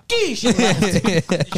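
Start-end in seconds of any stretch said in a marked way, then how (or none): 0.1-0.4 high mouth-made shot sound; imitated gunshot noise. Joking that someone shot the pool, gunshot noise. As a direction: spit out a mock gunshot. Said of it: "someone walked out and it's fucking".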